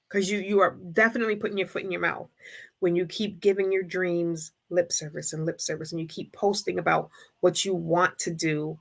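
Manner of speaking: ordinary talk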